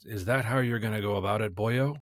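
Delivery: light Lucky Charms Irish with a lift at the end; mock Irish accent. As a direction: lightly mimic an Irish lilt, tipping the last word upward. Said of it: "a tonal lift at the end".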